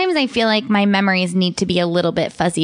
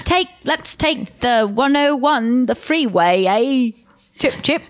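put-on Valley Girl accent; 3 semitones higher than usual. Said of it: "what's that sort of Valley Girl?".

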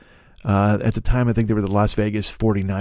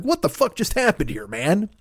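baffled outburst; 10 semitones higher than usual. Retold or imitated. Chris Angel pops out of juice.

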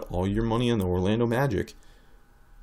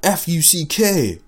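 loud yelps of pain; pained screams; 10 semitones higher, 11 dB louder, slower than usual. Acted. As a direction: scream like you just cut yourself. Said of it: "Whatever comes to mind, says the Manscaped ad read".

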